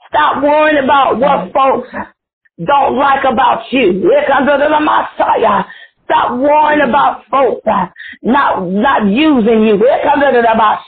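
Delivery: prophetic preacher in full flow; fervent preaching. Real, not acted. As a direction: preach it with punched, drawn-out key words. Prophesies to prayer line.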